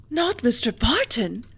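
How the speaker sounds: slow, anxious question; dreading the answer; alarmed cry. A narrator's reading. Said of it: "cried her daughter quickly".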